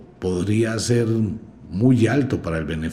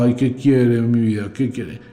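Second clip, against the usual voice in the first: mock doting parents; 3 semitones higher than usual. Imitating parents bribing a tantrum child.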